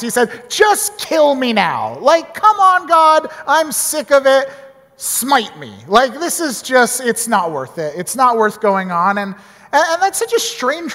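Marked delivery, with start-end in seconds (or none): 0.5-9.2 put-on petulant child. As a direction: sulk at God like a sulky kid. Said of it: "a bit like a petulant child".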